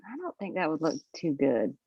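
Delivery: ordinary delivery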